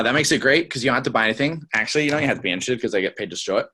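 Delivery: brisk, fast, casual run-through; quick offhand explanation; matter of fact. Shown as a demonstration. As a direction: rattle it off quickly and drop the voice. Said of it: "so it sounds like this".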